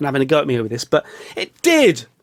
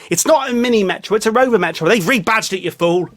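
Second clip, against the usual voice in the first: mock exasperation; 5 semitones higher than usual. Correcting imagined heckler.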